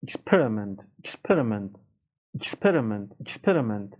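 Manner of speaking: "Experiment" with the weight on PER; ex-PER-iment, repeated as a teaching model; showing the stress. Shown as a demonstration. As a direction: lean on the second syllable of "Experiment". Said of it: "دقت کنیدم که استرس کجاست".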